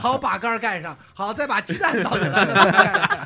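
slow instruction-giving robot; drawn out like a kitchen robot prompt. Retold or imitated. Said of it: "那机器人会说".

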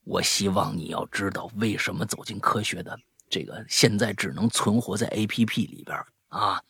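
low, soft, unimpressed deadpan; understated, muted disdain; disdainful. Retold or imitated. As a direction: brush it off quietly with distaste. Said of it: "那我一脸嫌弃".

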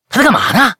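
high, loud, tactless question; loud blurt. Retold or imitated. Lili loudly asks about the stranger, blurting high and loud. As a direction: blurt it out loud without thinking. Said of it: "丽丽很大声的就说".

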